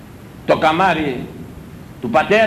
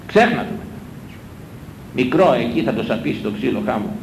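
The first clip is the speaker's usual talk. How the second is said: ordinary talk, nothing marked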